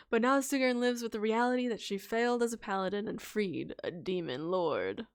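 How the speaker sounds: gentle story narration; soft narrator voice. Acted. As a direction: narrate softly to rest the voice. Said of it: "I'm talking like this to try and give my voice a break".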